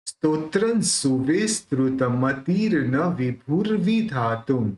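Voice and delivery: slow measured Sanskrit verse; slow devotional stotra recital; full verse recitation. Shown as a demonstration. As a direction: recite the whole stanza steadily for students. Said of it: "पूरा कैसे होगा?".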